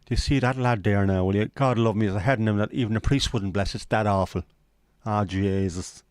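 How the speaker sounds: mock-Irish disparaging patter; Irish accent. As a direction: put on an Irish storyteller's grumble. Puts on Irish voice again.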